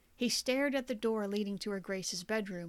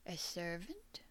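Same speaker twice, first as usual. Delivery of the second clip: whisper; 3 semitones lower, 10 dB quieter than usual. A narrator's reading. Gordon hiding, hearing steps.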